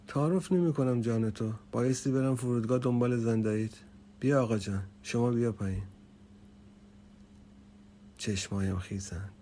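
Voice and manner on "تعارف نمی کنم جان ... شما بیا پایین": higher, louder uncle voice; uncle insisting. A narrator's reading. Uncle insisting over the intercom, raised voice. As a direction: press him to come down, no ceremony.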